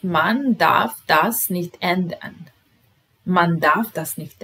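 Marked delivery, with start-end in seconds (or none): 0.0-2.5 slow model reading. Shown as a demonstration. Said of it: "Broj dvanaest".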